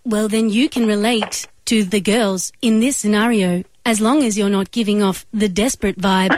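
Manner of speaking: robotic, even phone-menu voice; automated operator voice. Acted. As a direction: read it like a recorded phone system. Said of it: "use only my automated operator voice".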